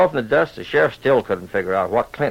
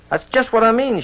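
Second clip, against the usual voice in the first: higher, exasperated old rancher's mock shout; a hammed-up holler, pitched up; 8 semitones higher than usual. A narrator's reading. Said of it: "shouted Clint".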